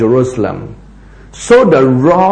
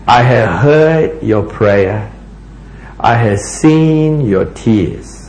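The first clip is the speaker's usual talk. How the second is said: solemn scripture proclamation; 3 semitones lower than usual. Acted. Reads out God's answer to Hezekiah.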